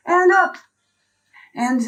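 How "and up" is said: pushed out under strain; strained effort. Real, not acted. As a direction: push the words out through effort. Pushing up from plank.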